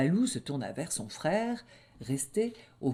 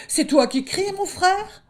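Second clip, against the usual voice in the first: very high, loud anxious call; high piping cub calling out; worried little wolf; 7 dB louder than usual. Acted. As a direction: ask your brother from afar. Little wolf calls over.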